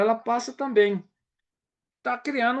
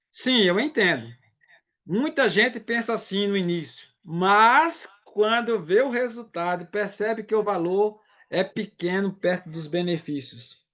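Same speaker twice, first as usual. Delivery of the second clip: reassuring sales reply. Shown as a demonstration. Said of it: "Eu vou dar um exemplo aqui".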